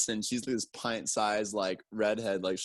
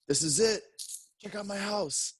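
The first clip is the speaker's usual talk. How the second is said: higher, lightly voiced proud host; 10 semitones higher than usual. Peter proudly shows the tiny room, higher mock voice. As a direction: pitch it up, showing off his home.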